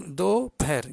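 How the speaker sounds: "per" with a puff of air after the p; aspirated p. Shown as a demonstration. Teacher shows the sound learners don't hear, airy p in "per". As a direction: breathe an h into "per", as "pher". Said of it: "bunyi angin sikit".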